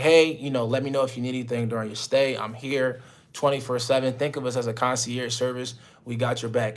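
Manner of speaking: polite, even customer-service tone; professional host voice. Retold or imitated. Host answering the client professionally, polite service tone. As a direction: sound like a calm concierge. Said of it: "the way I'm talking to y'all right now".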